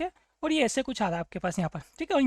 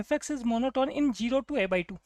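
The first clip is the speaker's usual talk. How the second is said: slow, word-by-word reading of the option; teacher slowly reads out the first option; much slower than usual. Shown as a demonstration. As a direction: spell the option out slowly so students can follow. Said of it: "first option में बोला गया है".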